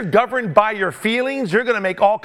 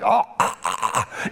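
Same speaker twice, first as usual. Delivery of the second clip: mock flattering sighs; 10 semitones lower, 3 dB quieter than usual. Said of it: "the flattery was just over the top".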